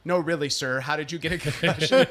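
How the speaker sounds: lightly voiced disbelieving nurse; retold sceptical follow-up question; insistent nurse. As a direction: press for the real answer, mildly mocking. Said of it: "And she's like".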